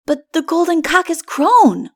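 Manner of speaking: put-on insistent child objecting; boy argues with Adam; arguing child. A narrator's reading. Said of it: "argued the child".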